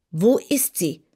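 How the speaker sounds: hushed whisper. A narrator's reading. Dorothy anxiously asks the maid in a whisper. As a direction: breathe the question out. Dorothy asking after her cat.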